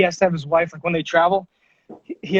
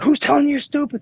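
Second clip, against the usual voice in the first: higher, louder, protective mother; alarmed mom; 8 semitones higher, 3 dB louder than usual. Retold or imitated. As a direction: snap it up in alarm. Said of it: "she freaked out and was like".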